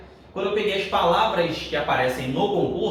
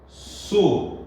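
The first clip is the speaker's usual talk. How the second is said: "Sublime" split su, bli, me with long pauses; syllable by syllable. Shown as a demonstration. Teacher shows the normal separation, "Sublime" in spaced syllables. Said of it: "a separação é normal".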